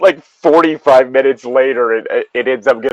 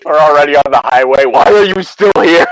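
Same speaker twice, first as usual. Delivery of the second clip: mock-indignant shout at a stalling passenger; mock exasperation; 6 dB louder than usual. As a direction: play-act being fed up, voice climbing. Acting out exasperated driver.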